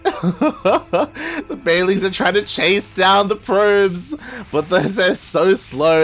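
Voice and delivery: high, slow call after laughing; laugh, then call the chase drawn out; giddy, high-pitched commentary; amused excitement. Real, not acted.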